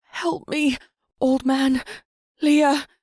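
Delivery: high, loud cries for help; desperate cries. Acted. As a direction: scream for rescue. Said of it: "Duin gasped desperately".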